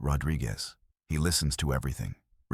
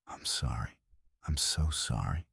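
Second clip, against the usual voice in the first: crying; 7 dB quieter than usual. Acted. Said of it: "He's crying now".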